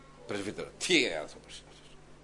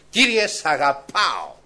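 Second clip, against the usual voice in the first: simple heartfelt; 2 semitones higher, 7 dB louder, slower than usual. Shown as a demonstration. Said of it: "Με απλότητα καρδιάς".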